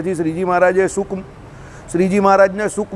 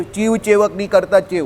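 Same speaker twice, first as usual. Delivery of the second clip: mock Surati accent. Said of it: "એમાં ચ ને સ ને એમાં લોચો પડે".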